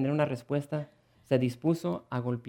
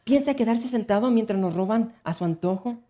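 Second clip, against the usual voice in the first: indignant; 7 semitones higher, 4 dB louder than usual. Acted. Wife's indignant thought.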